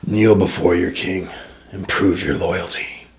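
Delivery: slow, low commanding king; ancient rasping undead king. Acted. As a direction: demand loyalty, slow and heavy. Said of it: "and he goes".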